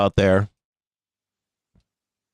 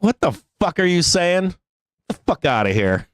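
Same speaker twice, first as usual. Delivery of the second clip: higher-pitched comic outrage; mock indignation; 4 semitones higher than usual. Streamer retorting to liberal attackers on Twitter, mock indignation. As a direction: act out an indignant comeback.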